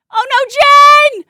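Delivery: high, loud, slow cry of dismay. Real, not acted. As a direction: wail it like the squat is slipping. Squat count going badly.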